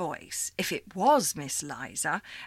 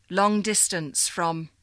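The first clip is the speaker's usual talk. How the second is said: a firm, louder caller's voice, slow; operator caller voice; 5 dB louder, slower than usual. Acted. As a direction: read it as a stiff switchboard voice. Caller voice over phone line.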